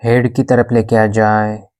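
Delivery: even, unhurried yoga nidra guidance; guided meditation. Acted. Yoga teacher guiding a class in shavasana, calm meditation voice. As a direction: guide them into stillness, with long pauses between instructions.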